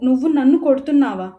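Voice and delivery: hurt, furious protest at her brother; shocked and angry after being slapped. Acted. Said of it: "అన్నయ్య వైపు కోపంగా".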